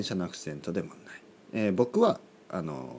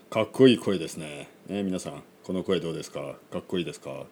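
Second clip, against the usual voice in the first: low, suave show-off voice; lightly put-on cool low voice; 3 semitones lower than usual.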